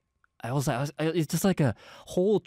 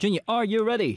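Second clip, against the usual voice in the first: hyped up; 9 semitones higher, faster than usual. Real, not acted. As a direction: pump up the crowd. Host hypes the final performance.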